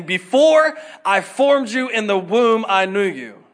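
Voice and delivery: slow, loud proclamation of the Lord; booming voice of God. Acted. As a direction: announce it like God himself. First reading of God's words.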